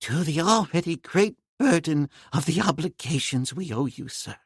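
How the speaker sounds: put-on slow, moved old professor, a touch unsteady; trembling voice. Professor thanks Tarzan for saving his honor, mildly moved. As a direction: hold back the emotion, understated. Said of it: "with trembling voice".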